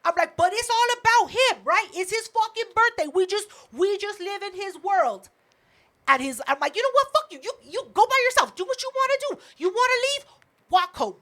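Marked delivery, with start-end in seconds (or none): 0.4-5.3 higher-pitched sarcastic rant; worked-up, resentful reenactment; upset, retold. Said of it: "I'm upset". 6.8-11.2 much higher-pitched, worked-up dismissal; fed-up retold tirade; retold spiraling. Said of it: "spiraling at this point".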